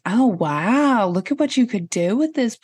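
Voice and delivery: lightly acted admiring "oh wow"; imitated impressed viewer. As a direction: play a house viewer who is suddenly impressed. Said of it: "they'd be like".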